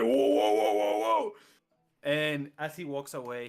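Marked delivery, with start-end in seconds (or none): 0.0-1.3 high, loud startled whoas; levitated brawler yelping in alarm. Acted. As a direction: panic while floating up. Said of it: "He goes like".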